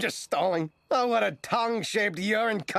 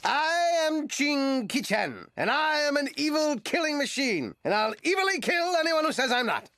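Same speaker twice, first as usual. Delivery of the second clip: hammy villain; 5 semitones higher than usual. Acted. Duckman plays the villain.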